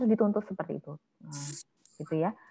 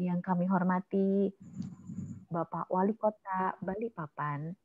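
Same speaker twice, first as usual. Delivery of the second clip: formal greeting; 3 dB quieter than usual. Shown as a demonstration. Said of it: "Contohnya begini".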